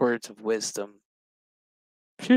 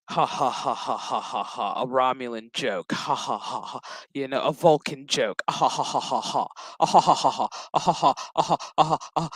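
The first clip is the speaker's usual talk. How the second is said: mock forced laugh. Recapping Picard's show, mimicking a stilted joke laugh. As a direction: fake stilted ha ha ha.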